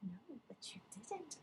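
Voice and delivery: soft reassuring whisper. Retold or imitated. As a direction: breathe it gently to comfort him. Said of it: "She was like".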